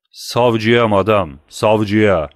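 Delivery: cold reply. Acted. Husband coldly answers as prosecutor.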